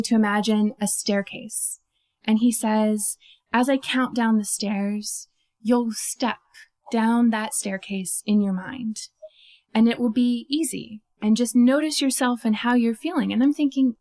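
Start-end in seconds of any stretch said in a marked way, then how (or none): 3.5-14.0 soothing hypnotic voice. Retold or imitated. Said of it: "talking to me in his very soothing, hypnotic voice".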